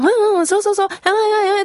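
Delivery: high, loud, eager rapid-fire delivery.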